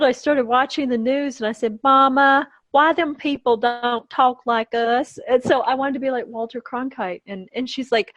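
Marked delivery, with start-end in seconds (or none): 1.8-5.2 lightly voiced Southern kid, raised pitch; a hint of a puzzled little Southern kid; six-year-old Southern child. Six-year-old asking Mama about the news, lightly childlike Southern voice. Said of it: "when I was six years old".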